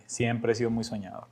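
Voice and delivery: usual speaking voice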